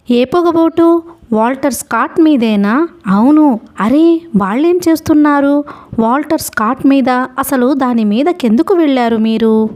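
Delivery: lightly voiced old ferryman, concerned; startled ferryman. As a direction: rouse yourself and question the crying boy. Ferryman alarmed, questioning.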